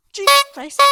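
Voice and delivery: real fright as something leaps out of the bin; startled scream. Real, not acted. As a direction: gasp then a high, loud yelp. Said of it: "Sorry for screaming".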